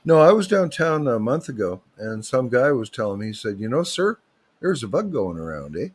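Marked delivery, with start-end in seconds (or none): 3.6-5.9 lightly voiced Southern Ontario local; a hint of Southern Ontario accent. Guy warning the speaker of a bug, light Southern Ontario accent. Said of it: "That's my best Southern Ontario accent".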